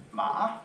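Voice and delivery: MA broken midway, then jumping high; tilde tone. Shown as a demonstration. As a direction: wobble MA upward to a high finish. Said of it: "the tilde".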